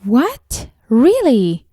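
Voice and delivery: shocked disbelief. Acted. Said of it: "show shock or disbelief".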